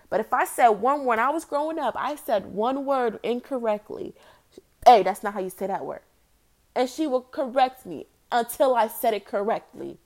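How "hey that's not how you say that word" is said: quick, loud retold correction; mother correcting a child. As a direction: cut in fast like a correcting mother.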